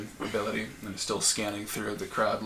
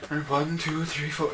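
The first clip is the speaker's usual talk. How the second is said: raised-pitch voice counting off; matron counting heads; 6 semitones higher than usual. Acted. Matron checking she has every schoolgirl, counting aloud. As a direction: count the pupils off briskly.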